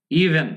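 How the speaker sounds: Even with its V midway between Bengali ব and ভ. Shown as a demonstration. Teacher modelling the V sound, between B and V. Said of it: "দুটোর মাঝখান থেকে উচ্চারণ করতে হবে".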